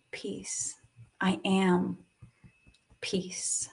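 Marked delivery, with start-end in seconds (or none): 0.1-0.7 whispered. Real, not acted. Affirmation whispered. 3.0-3.7 whispered. Real, not acted. Affirmation whispered.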